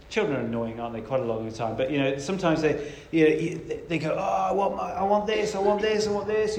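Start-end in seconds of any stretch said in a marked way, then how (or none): 4.1-6.6 mock tantrum, slightly raised pitch; bawling child imitation. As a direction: lightly imitate a child demanding something. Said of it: "they're shouting and they're bawling".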